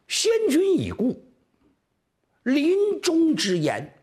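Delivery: high, slow keening lament; drawn-out high-pitched mourning cry; wailing widow. Acted. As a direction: wail it out like a grieving widow at court. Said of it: "哭啊".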